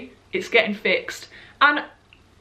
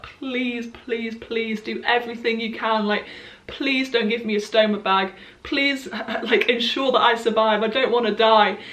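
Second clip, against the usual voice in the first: tearful plea. Retold or imitated. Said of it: "I had tears in my eyes".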